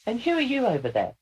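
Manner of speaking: high squeaky question; Leica. Acted. Channeled lieutenant addresses another sitter, squeakily. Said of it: "somebody that has a very squeaky voice".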